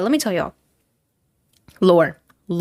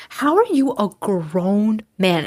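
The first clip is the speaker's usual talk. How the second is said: taken aback; much slower than usual. Retold or imitated. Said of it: "I was so taken aback".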